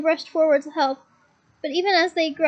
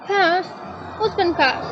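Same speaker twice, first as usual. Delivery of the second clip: alarmed Hagrid; 3 semitones higher, much slower than usual. A narrator's reading. Hagrid alarmed shouting in wind.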